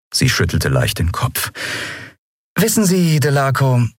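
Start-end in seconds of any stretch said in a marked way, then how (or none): 2.6-3.9 high-pitched, sweetly disarming; disarming smile. A narrator's reading. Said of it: "sagte sie mit entwaffnendem Lächeln".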